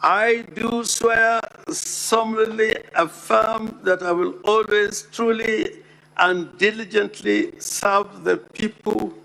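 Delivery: measured oath-taking cadence; reading the oath aloud. Shown as a demonstration. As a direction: read it out like swearing in. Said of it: "reads as follows".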